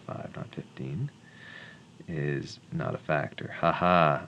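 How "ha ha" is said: loud, dry "ha ha"; mock laugh. Real, not acted. Tutor to student after a failed factor, mock laugh. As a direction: laugh it off sarcastically.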